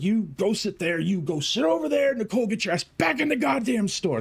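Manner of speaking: high barked orders, imitating a drill sergeant; ordering the brawling girls apart, mock drill-sergeant commands; mock drill instructor. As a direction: retell the bellow like a drill instructor. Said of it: "they call it my drill instructor tone".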